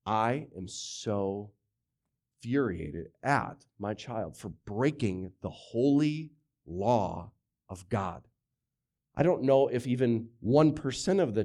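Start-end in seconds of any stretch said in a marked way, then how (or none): 0.1-8.3 soft, slow, lower sarcastic voice; sarcastic hushed holier-than-thou; mock pious parent. Pastor mocking parents who claim holy anger, softly sarcastic. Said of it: "the time that you said".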